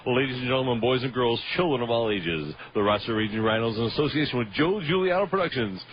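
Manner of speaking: booming ring announcer intro, slowing on the name; grand entrance announcement. Pretend. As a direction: hype up the player's entrance like an arena announcer. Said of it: "I'm gonna steal your name".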